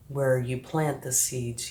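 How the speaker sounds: normal talking voice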